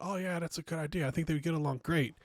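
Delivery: a light hint of gushing matchmaking friends; mock eager friends. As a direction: chirp it like scheming matchmakers. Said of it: "And they went".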